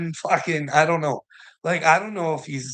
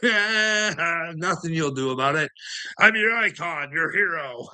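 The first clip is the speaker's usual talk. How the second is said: mock gloating villain; 5 semitones higher than usual. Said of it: "behind the scenes going".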